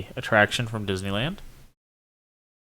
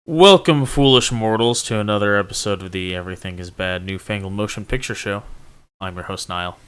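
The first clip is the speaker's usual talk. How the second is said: spooky ghost host; 3 semitones lower than usual. Acted. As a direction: greet them like a haunted host. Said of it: "Ghost host?".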